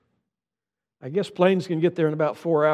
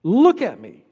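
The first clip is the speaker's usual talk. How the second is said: patient little teacher; 6 semitones higher, 4 dB louder than usual. Retold or imitated. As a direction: coax him word by word. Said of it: "six years old".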